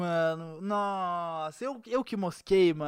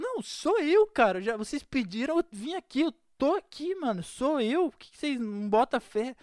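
high, desperate pleading; pleading insistence; 3 semitones higher than usual. Retold or imitated. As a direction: beg them to believe you.

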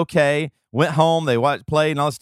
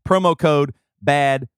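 emphatic podcast sponsor pitch, key words stretched; ad read; 4 semitones higher than usual. Acted. Host pitching a streaming service to listeners, emphatic ad read.

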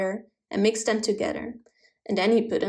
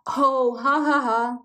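louder laughing ha ha; 3 semitones higher, 3 dB louder, slower than usual. A narrator's reading. Hedgehog laughing at the cherry pie mix-up. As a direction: laugh at his own mistake. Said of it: "laughed the hedgehog".

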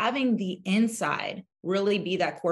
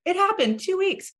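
amazed exclaim; 12 semitones higher, 5 dB louder than usual. Retold or imitated. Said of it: "every person's like".

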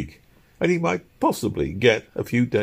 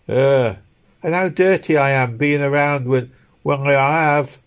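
higher working woman's voice; London woman; 7 semitones higher, 4 dB louder than usual. A narrator's reading. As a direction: voice a street woman talking about herself. London woman talking, acted.

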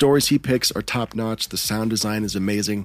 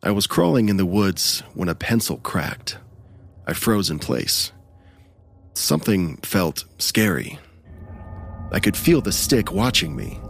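measured creepypasta storytelling; narrator voice. Acted. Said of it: "Let me put my narrator voice on".

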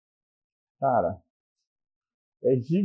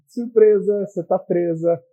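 mock surprise; 5 semitones higher, 6 dB louder, slower than usual. Mock gift of handcuffs.

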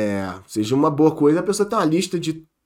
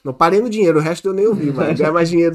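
excited; 4 semitones higher, 8 dB louder than usual. Pretend. Jokes about hearing only money.

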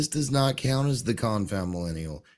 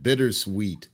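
a hint of jolly old conductor; lightly voiced train conductor; 5 dB louder than usual. Conductor answering his new worker, lightly voiced jolly role. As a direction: play the conductor, hearty then wistful.

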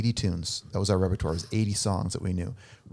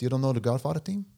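lightly mocked mobster disbelief, higher; mafia guy accent; 4 semitones higher than usual. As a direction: question them like a mafia guy. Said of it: "he's talking like this".

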